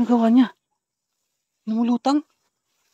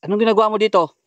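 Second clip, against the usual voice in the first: loud, raised challenge; calling out; 5 semitones higher, 5 dB louder, faster than usual. Real, not acted. Vlogger confronts a stranger found there, calling out. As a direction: call the question out higher and louder.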